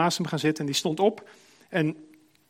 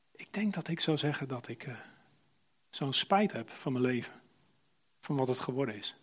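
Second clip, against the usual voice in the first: quiet regretful confession; 6 dB quieter than usual. Acted. Dying man confesses his regret.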